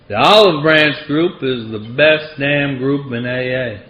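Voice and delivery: a hint of Franklin's Southern accent, unhurried; gentle imitation of a Southern AA old-timer. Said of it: "he had this thick Southern accent".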